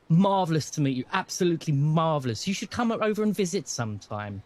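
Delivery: a touch of a jolly posh father, loud; hearty welcome, lightly voiced dad; Dad's greeting. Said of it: "He said".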